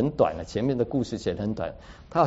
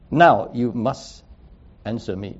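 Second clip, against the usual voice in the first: slow, louder commanding words; imperative, not a polite request; firm command; 5 dB louder, slower than usual. Retold or imitated. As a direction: lay down a firm order, each word deliberate. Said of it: "这句话是一个命令式".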